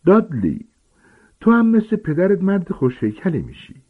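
high, put-on voice of a fussy aunt; aunt praising her nephew at dinner in a high, put-on voice; aunt Marge voice. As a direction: play the doting old aunt, pitched high.

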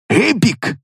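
high, eager falling Эпик; excited. Acted. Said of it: "с азартом повторил тот".

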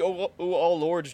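drawn-out, slow delivery. Retold or imitated. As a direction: stretch each word out slowly. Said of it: "but slow".

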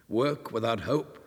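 usual speaking voice

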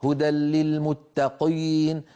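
للمتقين with a slow swollen قي; overemphasized qi. Shown as a demonstration. A teacher imitating overdone emphasis. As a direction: drag out the قي in للمتقين. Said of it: "الأذن تمج هذا الصوت".

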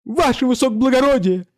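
high quavering falsetto cry; reedy falsetto. Acted. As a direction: gather courage and cry it out high. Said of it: "дребезжащей фистулой, громко". (громко, дребезжащей фистулой)

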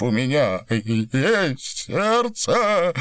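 drawn-out sobbing plea for his heart. A narrator's reading. Баренбойм sobs to Виноградов that he has a heart, crying. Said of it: "рыдая".

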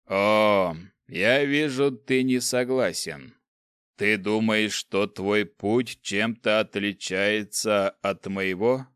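slow, sneering dark ruler; lightly voiced evil emperor. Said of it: "evil emperor speaks".

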